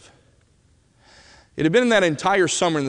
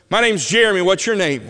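put-on high, loud eager boy's hello; loud, high excited hello; excited kid greeting; 4 semitones higher, 4 dB louder than usual. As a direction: blurt it out like a thrilled kid. Boy in wheelchair greets excitedly.

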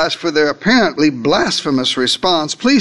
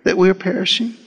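accusing; slower than usual. Retold or imitated. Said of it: "information now turns to accusation".

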